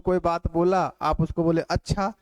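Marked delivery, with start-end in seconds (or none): 1.6-2.1 अच्छा asked as a question; mildly questioning अच्छा, as a demo; questioning tune. Shown as a demonstration. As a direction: lightly lift the end of अच्छा. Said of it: "ये प्रश्नवाचक हो गया".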